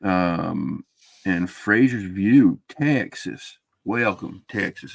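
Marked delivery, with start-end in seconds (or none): 2.7-4.9 put-on Texas twang for a greeting; amateur Texas accent. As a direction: try out a Texas accent, not quite convincingly. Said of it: "Is that a good Texas accent?".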